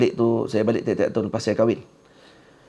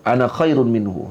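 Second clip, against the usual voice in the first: slower, deliberate boast of Iblis; slow proud boast; 4 dB louder than usual. Retold or imitated. Teacher repeats Iblis's boast slowly for students, proud. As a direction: spell out the arrogance word by word. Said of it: "tu perkataan".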